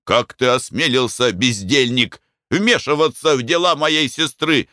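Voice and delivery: Mick scolds his cousin; angry rebuke. A narrator's reading. Mick berates the narrator.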